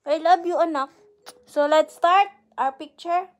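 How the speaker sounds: high, loud, bubbly; excited. Real, not acted. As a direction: burst out with delight. Mother excited to start photos.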